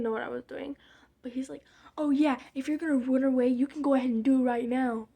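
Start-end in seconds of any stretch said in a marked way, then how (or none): 2.0-5.1 imitating dad's challenge, a bit louder; mock angry dare. Retelling dad daring teen to leave, mock angry challenge. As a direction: throw it out as Dad's heated dare.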